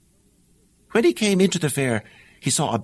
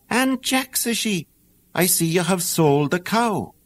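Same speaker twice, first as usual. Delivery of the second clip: lightly raised mother's voice, higher; a hint of the old mother greeting her son; 4 semitones higher than usual. The mother greeting Jack home, lightly higher voice.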